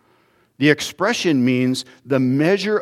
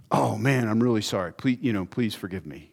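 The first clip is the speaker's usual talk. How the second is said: sheepish mock apology; 3 semitones lower, 6 dB quieter than usual. Acted repeated apology, fading.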